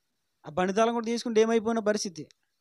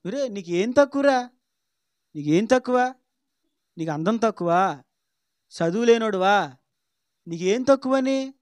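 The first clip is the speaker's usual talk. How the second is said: emphatic reassurance; 4 dB louder, slower than usual. Retold or imitated. Mother reassuring son emphatically.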